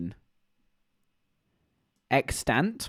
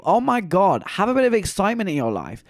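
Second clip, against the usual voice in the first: mock scream; 4 semitones higher, 3 dB louder than usual. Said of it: "I just wanna scream to you".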